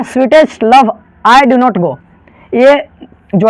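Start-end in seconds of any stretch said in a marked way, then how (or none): 0.0-1.9 Sweetest Love I Do Not Go said very slowly, word by word; slow title reading. Shown as a demonstration. Teacher slowly reading the poem title to students. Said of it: "poetry section में आपका क्या है".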